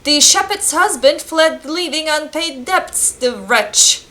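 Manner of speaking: lightly acted old-world priest; solemn game-character read-out; village priest. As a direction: declaim it as an archaic village priest.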